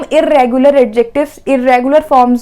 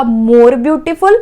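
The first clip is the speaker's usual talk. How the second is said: slow teaching read; 2 semitones lower, much slower than usual. Shown as a demonstration. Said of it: "comparative degree क्या हो जाएगा".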